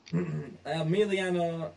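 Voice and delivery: catching on the name with a rough throat; croaky, stumbling over the name; frog in throat. Real, not acted. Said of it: "I got a frog in my throat".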